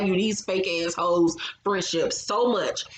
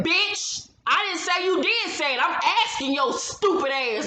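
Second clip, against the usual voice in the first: much higher, indignant snap; mock cuss-out; 7 semitones higher than usual. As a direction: tell her off in a shrill fake rage. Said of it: "I've been in cuss Shani the fuck out".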